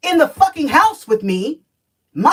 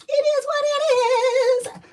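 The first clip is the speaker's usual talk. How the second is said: resigned; slower than usual. Real, not acted. Resigned shrug after bitter rant.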